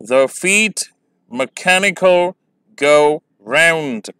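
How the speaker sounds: "The feet mechanical go round", spaced foot by foot, slow "mechanical"; iambic reading. Shown as a demonstration. Teacher reading a poem line to show its meter, slow and measured. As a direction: read it in deliberate iambic feet, pausing between them. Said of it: "देखें".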